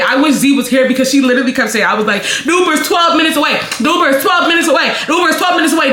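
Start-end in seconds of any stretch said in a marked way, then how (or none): 2.4-5.9 higher-pitched, insistent repetition; exasperated insistence. Retold or imitated. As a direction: repeat it like they won't listen. Repeats herself to drunk friend.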